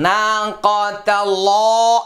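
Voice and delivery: slow নাকাতাল্লাহ said the mistaken way; wrong pronunciation demo. Shown as a demonstration. Teacher showing students how not to say নাকাতাল্লাহ. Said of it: "এরকম যেন না হয়".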